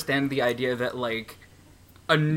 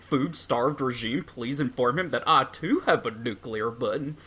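Donald Trump. Acted. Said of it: "funny, dangerous Donald Trump voice".

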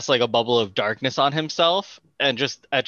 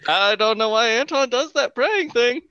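laughing; 13 semitones higher, 4 dB louder than usual. Acted. Laughing innocent aside.

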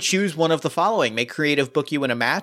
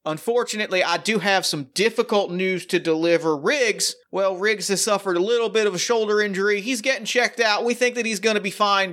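raised country announcer voice; cowboy accent; 4 semitones higher than usual. Acted. Tex breaking the news of the injury in a cowboy accent. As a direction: work the crowd like a folksy ring announcer. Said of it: "immediately the accent turns on".

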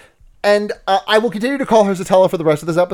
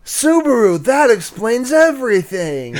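higher, slow, laughing through it; laughing mock line; 5 semitones higher than usual. Co-host laughing while voicing the character's realization.

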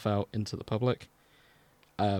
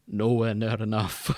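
put-on Scottish accent. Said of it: "Scottish accents".

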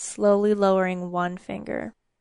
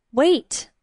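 sharp urgent cry; 5 semitones higher, 5 dB louder than usual. Acted. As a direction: stop him at once. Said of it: "Elena said".

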